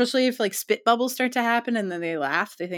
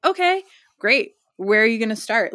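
mock enthusiasm; 3 semitones higher, 6 dB louder than usual. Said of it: "I'm like".

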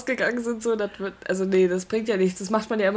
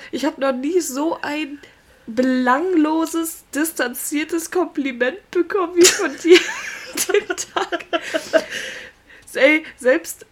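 mock outrage; 5 semitones higher, slower than usual. Mock-complaining about a bland compliment.

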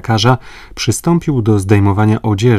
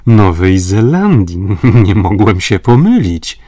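confident insistence; 5 dB louder than usual. A narrator's reading. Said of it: "powtórzył".

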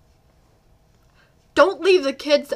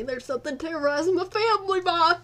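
fast, hammed-up hillbilly voice; mocking the story; 5 semitones higher, faster than usual. Shown as a demonstration. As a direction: send it up like a yokel. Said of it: "let's not make fun of the story".

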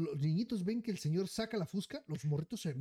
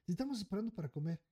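mocking the daughters; 3 semitones higher, faster than usual. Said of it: "Supuestamente ellas".

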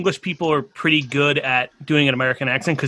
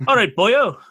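higher put-on Welsh, slightly English; attempted Welsh accent; 5 semitones higher, 3 dB louder than usual. Guest practising for hosts, English-tinged Welsh accent. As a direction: try Welsh but sound too English on "boyo". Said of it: "a little too Englishy".

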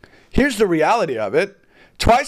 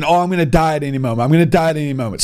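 mock panic; 3 semitones lower, much faster than usual. Imitating panicked drivers.

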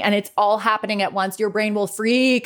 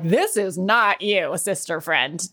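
sassy inner voice; 3 semitones lower, slower than usual. Retold or imitated. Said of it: "my brain is gonna be like".

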